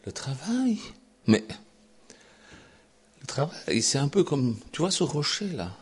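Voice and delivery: a hint of a smooth tempter; lightly voiced silky demon; suave devil. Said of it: "de sa voix suave". (léger démon à la voix suave)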